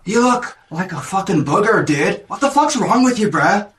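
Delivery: high, mocking bro insult; jock bully sneer. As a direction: taunt him like a dumb jock.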